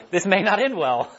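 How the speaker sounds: chuckling through the line; laughing. Real, not acted. Joking about a class of kids, laughing. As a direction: laugh it out as you say it.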